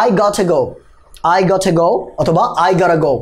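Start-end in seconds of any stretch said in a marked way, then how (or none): 0.1-0.7 "gotta" as "got-tha" with aspirated T; crisp-T "I gotta go"; British-style contraction. Shown as a demonstration. 1.4-1.9 "gotta" first with a puffed T, then tapped; British then American "gotta"; aspirated or flapped T. Shown as a demonstration. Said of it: "যে কোনো একটা বলা যাবে".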